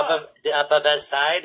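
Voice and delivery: lightly imitated European accent; weird European accent. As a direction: quote it with a hint of European accent. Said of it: "this really weird European accent".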